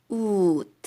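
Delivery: UT loud and drawn out, closed on a t; final T sound. Shown as a demonstration. Teacher showing the syllable's ending, T sound. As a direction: stretch the vowel of "ut", then stop it with t. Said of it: "that sound T".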